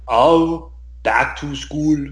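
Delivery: put-on slow, chanted Billy Madison ditty in an Austrian accent; bad celebrity impression, drawn-out sing-song; hammed-up action star singing a silly tune; Arnold Schwarzenegger. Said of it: "Arnold Schwarzenegger as Billy Madison".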